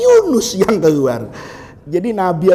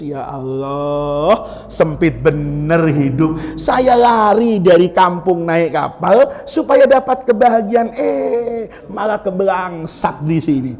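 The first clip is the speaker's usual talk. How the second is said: lamenting prophet; 5 semitones lower than usual. Acted. Yunus lamenting again.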